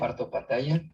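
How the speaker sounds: delayed echo through the call; distant hollow repeat of the line; canyon echo. Real, not acted. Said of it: "Hay un eco por ahí".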